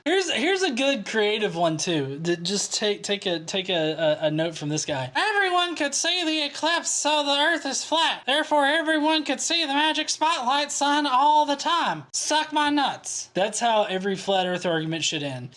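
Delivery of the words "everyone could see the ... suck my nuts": lightly put-on voice, pitched higher; higher comic read-aloud; mock comment reader.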